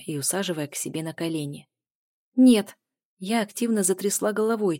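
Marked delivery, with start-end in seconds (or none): 2.3-2.8 sharp louder high no; loud refusal. A narrator's reading. Heroine refusing to sit on his lap, loud no. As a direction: refuse him with force.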